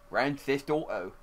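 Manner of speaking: mock Cockney. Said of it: "It's the Danny Dyer voice".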